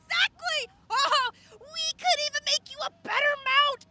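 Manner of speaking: high, eager cry; excited. Acted. Inventor thrilled by a new prosthetic plan, eager high cry. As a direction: burst out with the idea.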